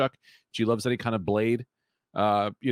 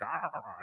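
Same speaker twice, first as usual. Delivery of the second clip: soft mouthed revving noise; imitated chainsaw; 2 semitones higher, 10 dB quieter than usual. Purge-goer going nuts with a chainsaw, soft imitated revving. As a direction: growl like a chainsaw, kept soft. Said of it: "going nuts".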